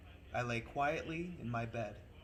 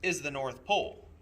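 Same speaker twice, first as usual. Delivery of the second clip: louder conductor; announcing; 6 dB louder than usual. Acted. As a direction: present it grandly.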